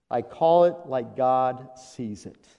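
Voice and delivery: "I call it like God sees it" said slowly, each word weighed; slow down and land "call"; slow and deliberate. Shown as a demonstration. Preacher repeating the point to the congregation, slow and deliberate.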